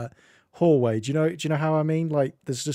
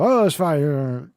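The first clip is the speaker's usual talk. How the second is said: polite British reply; 7 dB louder, much slower than usual. Retold or imitated. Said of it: "the British thing".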